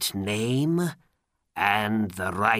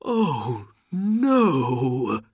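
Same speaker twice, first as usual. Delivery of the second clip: higher, drawn-out wail; tearful lament; 5 semitones higher, 5 dB louder than usual. A narrator's reading. Old man learning of a death, tearful wail. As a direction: break into grief. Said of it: "and began to cry".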